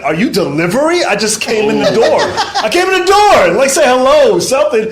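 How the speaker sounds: high, loud, laughing scolding; a guard telling off a comedian at the door; scolding security lady. Retold or imitated. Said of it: "at first she was like".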